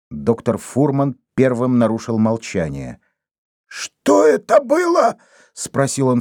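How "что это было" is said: high, slow breathless question; запыхавшись; out of breath. A narrator's reading. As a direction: gasp it out still winded. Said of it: "всё ещё задыхаясь".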